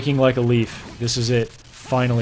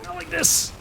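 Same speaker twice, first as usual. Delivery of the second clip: much higher, squealing falsetto plea; mock squeaky protest; 3 dB quieter than usual. Reader mocking the heroine's line, squeaky falsetto. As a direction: ham up the breathless heroine.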